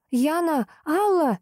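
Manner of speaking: high, urgent calls up the stairs; shouting for help. Acted. Kira calls Yana and Alla down from upstairs, shouting. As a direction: call both names up the stairwell in alarm. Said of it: "закричала я в проём лестницы".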